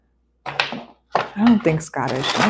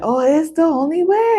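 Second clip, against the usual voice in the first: cartoon villain quote; 9 semitones higher than usual. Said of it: "people would be like".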